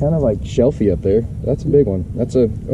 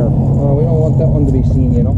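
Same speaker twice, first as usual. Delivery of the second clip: a light passing Wisconsin accent; half-joking hint of a Wisconsin accent; 3 semitones higher, 5 dB louder than usual. Real, not acted. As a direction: slip into a mild Wisconsin lilt. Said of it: "talking with a Wisconsin accent".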